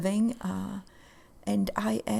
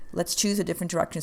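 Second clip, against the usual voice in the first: faster, brisk repeat of choose a different direction; quick restatement; faster than usual. Shown as a demonstration. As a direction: rattle it off as a rallying line.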